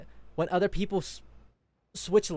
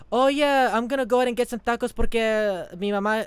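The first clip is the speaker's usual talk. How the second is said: higher, louder, bubbly rush into Spanish; mock code-switcher; 5 semitones higher, 6 dB louder than usual. Someone switching languages mid-sentence, hammed-up bubbly mimicry.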